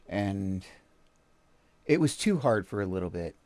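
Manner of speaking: low, soft, halting and heavy; subdued grief. Real, not acted. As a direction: speak quietly through grief, leaving long pauses. Recalling his son's suicide.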